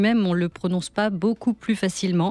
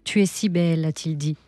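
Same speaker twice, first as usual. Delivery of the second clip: measured literary reading with pauses between phrases; unhurried first-person story narration; dramatic reading. Acted. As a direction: read the monologue as intimate storytelling, letting each line land. Reads an extract from the monologues.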